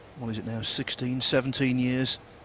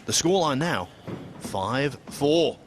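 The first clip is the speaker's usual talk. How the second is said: excited commentary; 5 semitones higher, 6 dB louder than usual. Real, not acted. Frame won, commentator raises voice.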